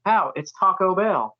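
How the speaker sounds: slow drawled Taco Bell with a country twang; Southern twang. Retold or imitated. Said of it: "I'm like".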